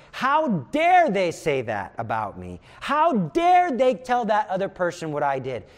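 mock outrage, long punched 'how dare'; indignant. External voice stirring up resentment after an insult, indignant. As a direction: play at being offended, leaning on the first words. Acted resentful voice in one's head.

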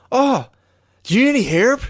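high-pitched imitation of calling from afar; imitated rooftop yell. Landlord offering help from a roof across the street, mock yelling. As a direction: holler it down like the landlord. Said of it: "yelled at it from a roof".

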